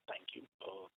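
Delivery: faint, crackly phone line; breaking up on a bad phone connection; over the phone. Real, not acted. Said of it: "your audio is not coming clearly".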